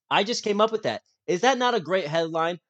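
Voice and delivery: bragging about the headline; excited. Real, not acted.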